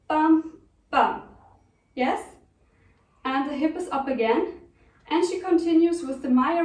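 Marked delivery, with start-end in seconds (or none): 0.1-1.2 "bum, bum" as two punched, separated beats; two accents. Shown as a demonstration. Dance teacher sounding out a singer's two hip accents, punched. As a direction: hit each "bum" hard, a pause between. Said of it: "two accents like".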